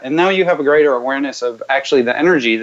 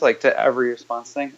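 usual speaking voice

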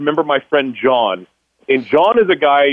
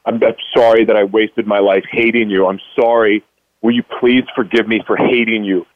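retold apology; 4 semitones lower than usual. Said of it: "I just started saying".

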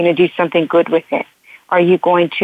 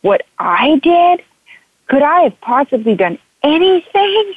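high, pleading mock victim; high wounded disbelief; victim mode; 8 semitones higher than usual. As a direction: whine it up high like an innocent victim. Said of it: "I went straight into victim mode".

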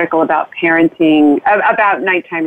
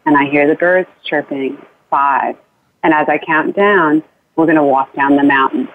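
guided bedtime journey; 2 semitones lower than usual. Shown as a demonstration. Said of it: "And then you say".

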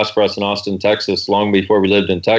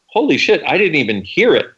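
amazed; 4 semitones higher than usual. Retold or imitated. Retold amazed realization.

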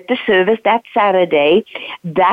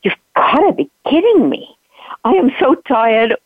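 higher, half-mock exasperated protest; exasperated disbelief; 6 semitones higher than usual. To her friend at the airport, higher mock-exasperated protest. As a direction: play up the tired, can't-believe-it groan. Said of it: "And I'm like".

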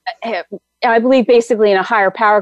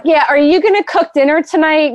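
lightly imitated husband dodging the topic, raised pitch; mock casual, higher-pitched change of subject; quick subject change; 6 semitones higher than usual. Husband dodging talk of the voice she heard, mock subject change. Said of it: "quick change the subject kind of thing".

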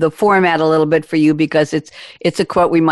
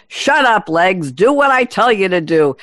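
performed catchphrase command; 3 semitones higher than usual. Acted. Reading a cyclist's catchphrase aloud.

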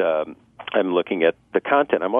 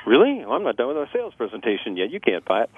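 mock surprise; 2 semitones higher than usual. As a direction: ham up the startled salesman. Mocking salesman who won't stop.

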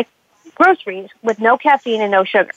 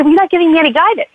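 mock whiny complaint; 6 semitones higher, much faster than usual. Client complains to coach on phone.

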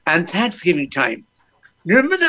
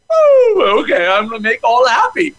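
excited oh; 4 semitones higher, 3 dB louder than usual. Retold or imitated. Answering his heart.

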